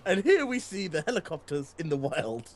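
slow, hushed wildlife narrator; nature documentary. Pretend.

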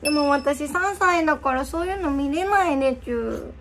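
put-on baby talk.

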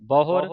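ਬਹੁਰ with a rolled, complete r; full final r. Shown as a demonstration. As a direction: sound the r of ਬਹੁਰ fully before moving on. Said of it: "ਰਾਰੇ ਨੂੰ ਪੂਰਾ ਬੋਲਣਾ ਹੈ". (ਬਹੁਰ ਪੂਰੇ ਰਾਰੇ ਨਾਲ)

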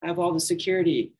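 half-joking swagger, hammed up; mock boastful. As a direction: puff yourself up like a know-it-all. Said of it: "and be like".

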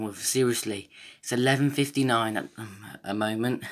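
breathless after a run; panting between words; out of breath. Real, not acted. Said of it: "I'm just too out of breath".

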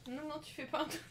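shouting through laughter; laughing shout. Real, not acted. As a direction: laugh while yelling no. Teasing a teammate who lies down.

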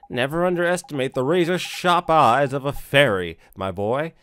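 lightly voiced boastful little fairy; cocky sidekick. Drippy boasting to Ollie about fairy eyes, cocky.

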